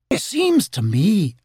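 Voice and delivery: pompous opening of a busybody; fussy rabbit. Acted.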